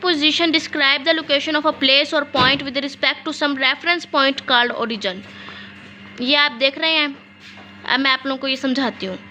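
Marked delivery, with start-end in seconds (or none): 0.0-5.2 slow dictation reading. Shown as a demonstration. Reads the definition for dictation.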